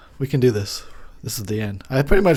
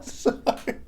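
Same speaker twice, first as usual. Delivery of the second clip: whispered; 7 dB quieter than usual. Real, not acted. Whispered after laughing fit.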